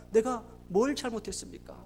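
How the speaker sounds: retold anguish, soft and falling; subdued protest. Father asking God what he did wrong, subdued protest. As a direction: ask it as a hurt, quiet reproach. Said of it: "병원에서 그렇게 울부짖었대요".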